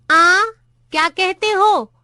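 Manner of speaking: put-on high, loud old man asking what was said; hard-of-hearing old clerk. A narrator's reading. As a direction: call out like you can't hear a thing. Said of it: "अपने कानों पर हाथ रख कर पूछा". (ऊँचा सुनने वाले बूढ़े की ऊँची आवाज़)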